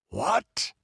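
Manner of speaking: jolted by sudden dread; startled cry. A narrator's reading. The count hearing of the black man, horrified cry. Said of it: "a cry that burst from".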